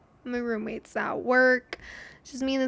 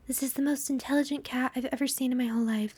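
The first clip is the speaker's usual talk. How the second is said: imitating mom; faster than usual. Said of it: "literally what my mom said".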